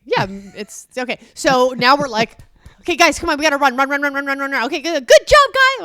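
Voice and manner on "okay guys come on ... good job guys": high, loud, peppy coach voice; fake-cheerful, hiding the panic; upbeat pep-talk to the kids while freaking out; forced cheerful encouragement. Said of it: "We're trying to be really encouraging".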